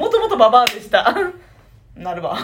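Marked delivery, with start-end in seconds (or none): 0.0-1.1 quick, hammed-up crone reveal; mock old hag reveal. After opening the treasure box, hammed-up old hag. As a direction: announce you were an old hag all along.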